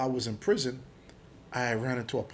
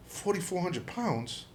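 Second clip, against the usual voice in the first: slow, higher incredulous question; retold disbelief; 5 semitones higher, 4 dB quieter, slower than usual. Arrested man answering the agent's charge, slow incredulous retold question. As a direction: echo the figure back in mock disbelief. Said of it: "I'm like".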